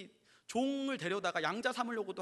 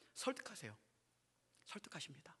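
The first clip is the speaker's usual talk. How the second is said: ordinary talk, nothing marked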